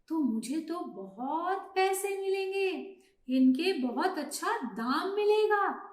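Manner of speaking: a touch of greedy delight; gleeful scheming. Acted. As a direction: relish the thought of money. Hunter gleefully imagines the money.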